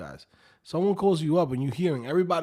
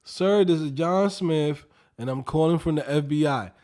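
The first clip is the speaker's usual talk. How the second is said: mock Slavic accent; 6 dB louder than usual. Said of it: "John Smith don't have a fucking accent".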